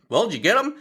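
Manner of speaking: high, rising imitated question; curious question. Doctor stitching the hand asks, imitated eager curiosity. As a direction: mimic a doctor itching to know.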